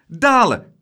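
high, loud, eager cry; excited, ringing call. A narrator's reading. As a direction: shout your vote for adventure. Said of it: "riep Laura".

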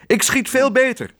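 high, boastful cry; high-pitched squabbling yell; jealous shout. A narrator's reading. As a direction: shout it to outdo your rival. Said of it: "riep hij".

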